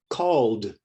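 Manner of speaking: "Called" in one syllable, ending in d; "Called" said like "calld"; silent E. Shown as a demonstration. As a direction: say "Called" with no E before the final d. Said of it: "The E is silent".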